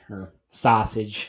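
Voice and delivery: sausage with a slow Brooklyn "sah" vowel; Brooklyn accent. Real, not acted. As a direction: say sausage Brooklyn style, slowly. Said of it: "Stop talking like you're from Brook-, Brooklyn".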